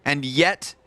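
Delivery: measured, dramatic caster recap; live play-by-play. Real, not acted. Caster praises Rolf as time expires, dramatic play-by-play. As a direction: stretch the key phrases as the round closes.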